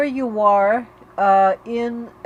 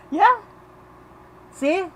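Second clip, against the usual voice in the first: laughing; 9 semitones higher than usual. Real, not acted. Laughs after grinning to change state.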